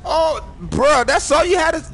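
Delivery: laughing. Real, not acted. Laughing at the friend's greeting.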